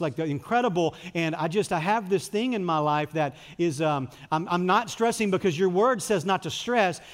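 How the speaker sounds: hammed-up pretend prayer; mock polished prayer. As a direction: act out a fake pious prayer. Mimicking a polished fake prayer.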